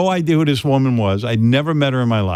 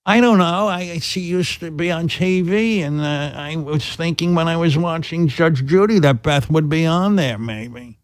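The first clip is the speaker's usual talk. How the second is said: mother voice; 4 semitones higher, 3 dB quieter than usual. Retold or imitated. Son voicing his mother.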